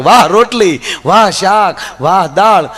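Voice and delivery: husband loudly praising dinner; loud praise. Retold or imitated. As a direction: belt out each વાહ like a big compliment. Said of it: "ત્રીજી વાર બોલ્યો કે".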